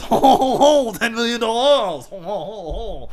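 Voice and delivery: high, loud ho-ho laughing put-on voice; hammed-up chuckling store owner; jolly laughing shopkeeper. Shopkeeper chuckling as he answers Oprah, hammed up. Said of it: "he goes".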